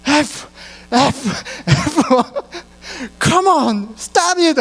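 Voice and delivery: high, imitated coworker cursing under stress; mock swearing. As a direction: act out a fed-up coworker swearing, pitched high. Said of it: "막 욕을 하면서 일을 해요".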